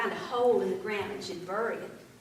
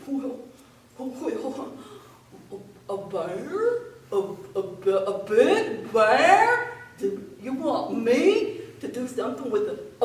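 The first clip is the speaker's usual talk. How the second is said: nasal long-nose voice; 8 dB louder than usual. A narrator's reading. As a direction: talk like the nose gets in the way. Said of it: "kinda has to talk like this".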